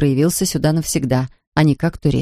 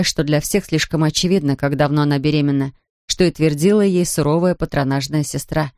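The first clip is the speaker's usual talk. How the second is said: ordinary delivery, nothing marked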